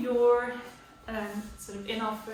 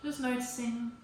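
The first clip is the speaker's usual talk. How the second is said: guided yoga meditation. Real, not acted. Yoga teacher settles the class into child's pose, calm guided delivery. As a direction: gently talk them down into stillness, leaving space.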